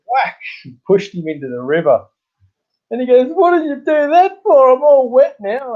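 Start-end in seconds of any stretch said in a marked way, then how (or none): 3.3-5.7 mock outraged mate, much higher and a bit louder; indignant complaint. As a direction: squeal it like a soaked, offended mate. Mate pushed into river complains.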